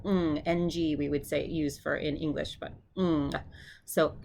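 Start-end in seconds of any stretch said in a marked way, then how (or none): 3.0-3.3 "ng" held in the back of the throat; isolated, drawn-out "ng"; ng sound. Shown as a demonstration. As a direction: hum "ng" as in sing, releasing into g. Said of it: "makes that ng sound".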